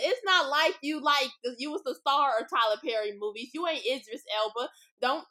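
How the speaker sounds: sass him out like you finally snapped; mock angry rant. Imagined rant at rude celebrity.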